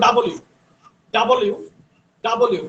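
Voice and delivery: ডাবল ইউ said joined and clear; double you. Shown as a demonstration. Teacher drilling the letter W. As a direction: run ডাবল ইউ together smoothly. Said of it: "একসাথে বললে ডাবল ইউ".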